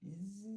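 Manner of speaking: imitated "zzz" rising in pitch; voiced mechanical whir; buzzing noise. A narrator's reading. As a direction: buzz like a mechanism, sliding upward. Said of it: "you hear a zzz".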